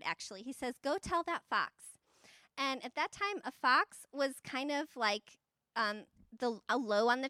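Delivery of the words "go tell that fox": slow, pitched-up jab at Herod; mock him, slow and raised; a mocking dig at a rival ruler. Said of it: "he actually kinda mocks Herod".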